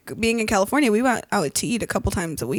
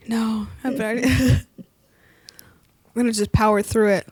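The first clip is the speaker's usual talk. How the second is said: talking through spicy heat; mouth burning. Real, not acted. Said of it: "My mouth is burning".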